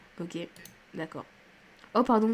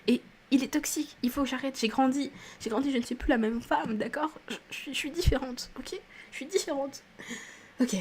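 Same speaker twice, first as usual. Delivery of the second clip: petite voix aiguë et plaintive; plainte pour se raisonner; 4 semitones higher, 3 dB quieter than usual. Real, not acted. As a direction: se convaincre d'une voix plus haute. Se raisonne, excédée, sur un personnage. (plainte aiguë, à bout)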